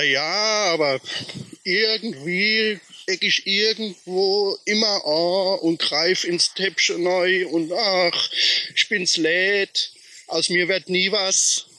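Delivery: lightly voiced sulking little man; mopey little man. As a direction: play the sad sack who gives up. Teller voices the sad little man.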